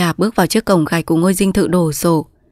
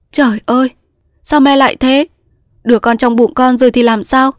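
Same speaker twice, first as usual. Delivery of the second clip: high, louder distraught cry; desperate; 7 semitones higher, 4 dB louder than usual. Acted. Daughter pleading with mother, distraught. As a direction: plead in alarm.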